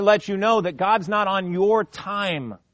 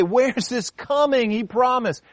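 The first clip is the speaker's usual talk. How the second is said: slow, mocking sneer of a scoffer; a scoffer mocking the promise; sarcastic; 6 semitones higher than usual. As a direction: drag it out with scorn. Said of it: "Can't you just hear the sarcasm".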